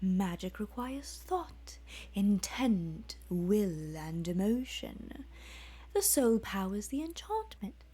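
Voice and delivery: a lightly voiced demon, measured and cold; Dremora speaking. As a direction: lecture the boy like a patient demon. Dremora voiced in read story.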